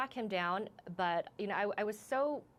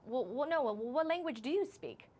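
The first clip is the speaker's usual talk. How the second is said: imitated stumbling comeback, pitched high; flustered stranger; 6 semitones higher than usual. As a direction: mimic a stranger backpedalling in a higher voice. Stranger's flustered reply, retold.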